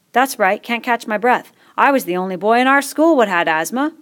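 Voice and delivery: lightly voiced proud fat boy. A narrator's reading.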